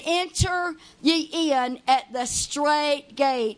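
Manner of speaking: slow, measured reading; slow solemn Bible verse; scripture reading. Acted. Reads scripture.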